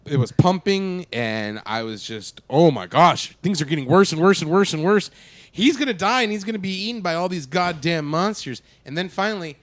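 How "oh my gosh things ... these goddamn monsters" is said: loud, mounting mock panic; retold frantic worrying; re-enacted panic. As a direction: build the alarm as it keeps piling up. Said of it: "I was having a panic attack".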